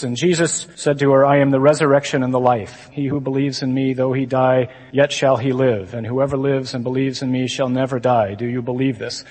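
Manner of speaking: lightly imitated solemn recital; gospel reading. Imitating a seminarian reading to his classmates, measured recital. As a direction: read it out evenly, like scripture in chapel. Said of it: "he's reading the gospel".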